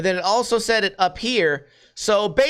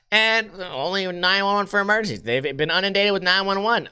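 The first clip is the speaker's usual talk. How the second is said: mocking recital; 3 semitones higher than usual. Mockingly rereads the repetitive article.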